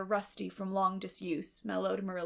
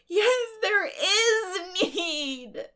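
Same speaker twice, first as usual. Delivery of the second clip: slow, high, loud sobbing cry; sobbing protest; 11 semitones higher, 9 dB louder, much slower than usual. Acted. Tearful orphan to Marilla, sobbing protest. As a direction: sob it out defiantly.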